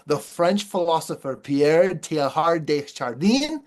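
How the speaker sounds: a self-mocking try at a French accent on the name; lightly put-on French accent, fumbling the name; amateur French accent, half joking. Shown as a demonstration. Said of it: "let me give you my best French accent".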